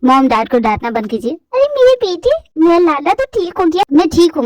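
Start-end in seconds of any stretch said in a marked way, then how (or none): 1.3-2.3 higher, slow delighted cry; overjoyed mother. Acted. Mother welcoming her recovered son home, higher slow joyful voice. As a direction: gush over the son.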